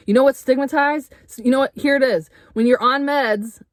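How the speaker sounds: heated loud rant; getting loud. Real, not acted. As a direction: let the anger push the voice up. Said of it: "see, now I'm getting loud".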